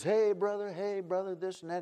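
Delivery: high-pitched imitation of pious church folk; mock churchgoer greeting. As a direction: lightly mimic the gushing "brother" greetings. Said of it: "And everybody's all".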